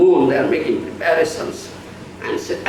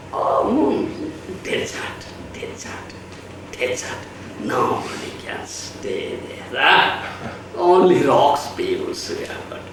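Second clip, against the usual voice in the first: low, soft, dejected murmur; deflated report; 5 semitones lower, 5 dB quieter than usual. Retold or imitated. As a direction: let it sink, disappointed.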